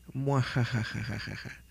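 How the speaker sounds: mustache twirling villain. Retold or imitated.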